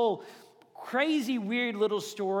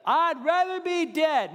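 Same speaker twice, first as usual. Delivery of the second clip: higher, louder, slow mopey whine; whiny Jonah; 6 semitones higher, 4 dB louder, slower than usual. Retold or imitated. Pastor mocking Jonah to the congregation, mopey whine. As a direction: pout it out like a sulking Jonah. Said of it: "And he goes".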